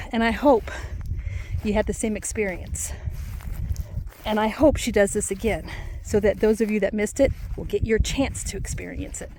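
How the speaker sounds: breathless while walking uphill; puffing between phrases; out of breath. Real, not acted. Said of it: "I'm huffing and puffing".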